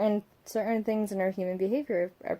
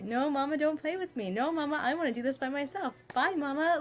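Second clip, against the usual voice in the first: imitating toddler; 8 semitones higher, 4 dB louder than usual. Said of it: "she already pushes me away".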